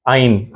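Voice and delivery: आइन voiced from the throat; Arabic ع letter name; throat ain. Shown as a demonstration. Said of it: "हलक से निकालते हैं".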